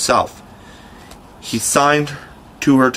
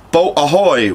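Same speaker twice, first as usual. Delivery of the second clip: louder, higher pirate captain's call; Hook's hail; 5 semitones higher, 4 dB louder than usual. A narrator's reading. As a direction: Hook hails his boat across the lagoon. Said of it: "rang over the lagoon in Hook's voice".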